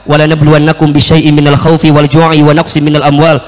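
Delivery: low-pitched, even Arabic recitation; Quran recitation. Retold or imitated. Interviewer testing the candidate's memorisation, low recited verse. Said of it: "surat Al-Baqarah satu lima lima".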